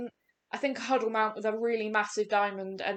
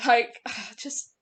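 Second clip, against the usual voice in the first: higher-pitched, happy relief; real happiness; 3 semitones higher than usual. Real, not acted. Gamer celebrating finally getting a diamond, genuinely happy. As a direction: say it overjoyed, pitch lifted. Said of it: "I'm so happy".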